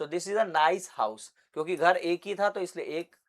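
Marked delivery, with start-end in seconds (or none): 0.0-1.2 slow model sentence. Shown as a demonstration.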